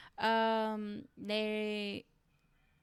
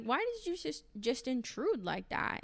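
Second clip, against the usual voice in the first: pitched-up, put-out complaint; imitated indignant question; 5 semitones higher than usual. Brian confronting Lisa about intruding, mock indignant. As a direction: retell it as a high protest.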